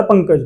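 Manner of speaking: पंकज with a quick nasal before the k; पंकज said short, nasal not lengthened; short nasal consonant. Shown as a demonstration. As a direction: pass quickly over the half nasal in पंकज. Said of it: "आधा वर्ण मतलब जल्दी बोला जाएगा".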